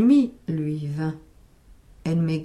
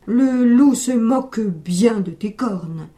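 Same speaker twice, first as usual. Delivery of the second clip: stern scolding; 5 dB louder, slower than usual. Acted. Old man scolds goat.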